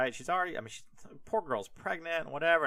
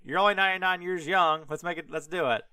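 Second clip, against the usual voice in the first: eager God; 4 semitones higher, 5 dB louder, faster than usual. Retold or imitated.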